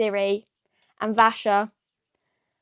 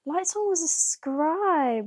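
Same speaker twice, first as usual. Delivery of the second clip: shocked whisper; 6 semitones higher, slower than usual. Real, not acted. Shocked gasp at the plot twist.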